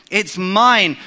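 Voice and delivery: mine stressed with a falling tune; emphatic. Acted. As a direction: claim it firmly. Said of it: "the language is really emphatic".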